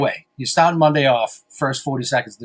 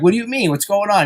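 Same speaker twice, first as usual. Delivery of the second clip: retold surprise; 8 semitones higher than usual. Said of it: "And I'm like".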